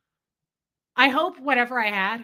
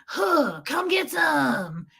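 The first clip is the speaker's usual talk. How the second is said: high, drawn-out, hammed-up battle taunt; taunting challenge; 4 semitones higher, much slower than usual. Egged on to face this guy, hammed-up taunt. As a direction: dare him on with a stretched-out call. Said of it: "That's how I felt".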